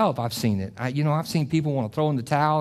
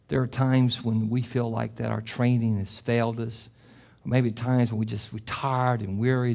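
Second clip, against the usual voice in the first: closing prayer. Acted. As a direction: lead the church gently into prayer.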